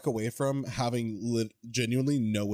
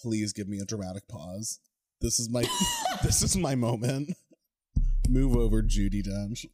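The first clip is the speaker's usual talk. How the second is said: hammed-up diva; 3 dB louder than usual. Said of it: "She's like".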